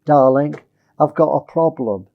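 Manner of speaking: wife raising an issue meekly; gentle, meek. Shown as a demonstration. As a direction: own the problem gently. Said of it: "Why not say".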